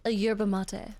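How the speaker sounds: attempted posh British accent; a light try at posh British. Shown as a demonstration. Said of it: "is it a posh British accent?".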